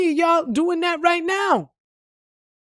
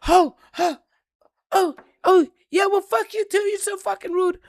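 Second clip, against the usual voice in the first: offended driver; 6 semitones higher than usual. Retold or imitated.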